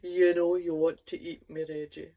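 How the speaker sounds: lightly husky, coaxing whisper-ish chant; a hint of a seductive sausage; husky hot dog voice.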